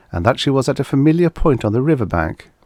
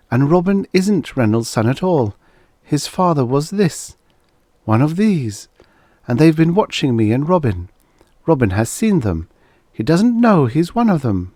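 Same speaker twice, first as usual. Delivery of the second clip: frantic realization; 8 semitones higher than usual. A narrator's reading. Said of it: "Helen's weary, numbed state".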